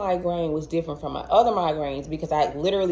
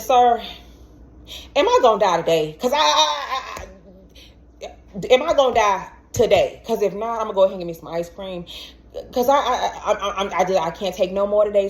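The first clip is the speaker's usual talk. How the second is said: fast, higher, laughing plea; desperate half-laugh; 3 semitones higher, faster than usual. Retold or imitated. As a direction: beg through nervous laughter. Pleading with ER doctor, half laughing.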